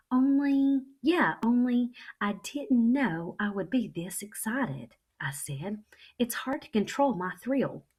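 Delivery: trying to hush but bursting; too loud, excited. Acted. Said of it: "only it kept staying loud".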